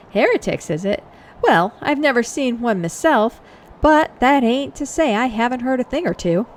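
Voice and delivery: lightly voiced folksy man-at-arms; a hint of rustic soldier; obliging common soldier. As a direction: offer gossip like a helpful foot soldier.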